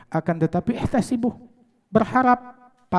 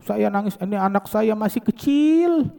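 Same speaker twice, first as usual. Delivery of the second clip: higher, plaintive, with a stretched ending; imitated weeping mother; 5 semitones higher than usual. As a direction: lightly act a mother's lament. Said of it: "Ini ibu-ibu nangisin anaknya". (menirukan ibu yang meratap)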